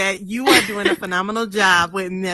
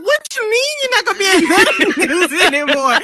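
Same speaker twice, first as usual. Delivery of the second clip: incredulous question; 8 semitones higher, 4 dB louder than usual. Retold or imitated. Friend's disbelief at the news.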